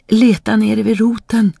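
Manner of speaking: high calling voice from down below; hidden spirit calling. A narrator's reading. Hidden voice answers the boy from the roots, high calling. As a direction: call out high, directing the listener to you.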